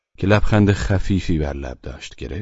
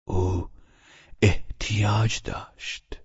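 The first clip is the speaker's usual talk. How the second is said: mumbled half-swallowed words, soft and slow; mumbling; 3 semitones higher, 5 dB quieter, much slower than usual. A narrator's reading. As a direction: chew the words, barely getting them out. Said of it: "جویده جویده گفت".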